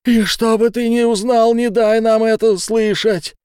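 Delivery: high, loud frantic pleading; desperate shouting. Acted. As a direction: yell him out of the room. Fitz begging him to leave.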